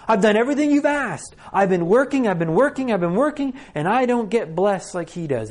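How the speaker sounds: high-pitched, indignant outburst; angry older son venting at his father; furious. Acted. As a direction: protest in mounting exasperation, hammering the repeats. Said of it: "He's angry. He's furious".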